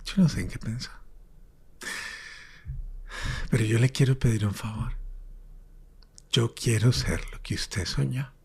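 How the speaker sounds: hushed, half-whispered plea to God; desperate prayer. Retold or imitated. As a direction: pray it quietly from the depths, words fading to breath. Retells his desperate prayer to God. (oración desesperada en voz baja, casi susurrada)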